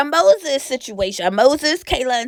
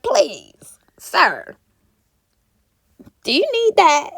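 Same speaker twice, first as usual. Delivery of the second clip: whisper; 5 semitones higher than usual. Pretend. Calling him up, aside.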